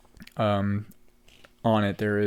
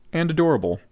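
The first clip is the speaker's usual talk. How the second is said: loud, fast and gushing; bursting with delight; excited; 4 semitones higher, 10 dB louder, faster than usual. Retold or imitated. Gushing quote about drunk antics.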